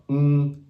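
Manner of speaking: "N" said as the ng ending of camping; ng sound. Shown as a demonstration. Teacher showing the loanword sound, held ng for "N". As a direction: hum "N" at the back of the mouth as ng. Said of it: "in the word camping".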